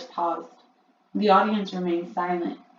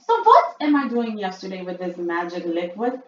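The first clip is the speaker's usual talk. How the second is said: much higher, louder witch voice; Grand High Witch; 8 dB louder than usual. A narrator's reading. Witch addressing her audience, high and loud. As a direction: boom it out like a shrill witch queen. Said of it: "asked the Grand High Witch".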